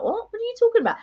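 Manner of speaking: high-pitched retold disbelief; mock astonished question, very high; incredulous. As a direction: act out total bafflement, voice shooting up. Retold disbelief at friend's remark.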